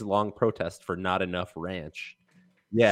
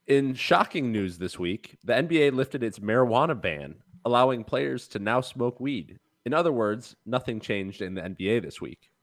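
newscaster voice. Acted. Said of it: "I can't be expected to do a newscaster voice".

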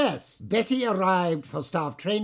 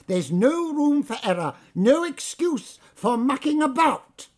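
loud lecture; 8 semitones higher, 5 dB louder than usual. Acted. Manager lecturing loudly.

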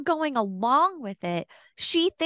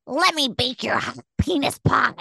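mock girlfriend tone; 3 semitones higher than usual. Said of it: "she probably doesn't say it in that tone".

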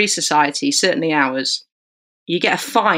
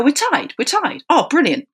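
much higher, delighted yelps of relief; overjoyed players; 10 semitones higher than usual. Retold or imitated. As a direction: squeal it like the happiest lads alive.

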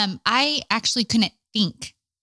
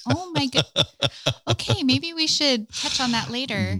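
amused dismay; 7 semitones higher than usual. Retold or imitated. Laughing at child's innocent prayer.

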